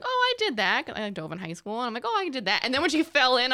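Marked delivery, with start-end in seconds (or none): 0.0-0.9 high-pitched quote of own reaction; retold breezy recognition. Ex-diver recalling watching the TV, high-pitched recognition. 2.0-2.6 raised-pitch quote of own reaction; retold breezy recognition. Ex-diver repeating their reaction to the TV, raised-pitch recognition.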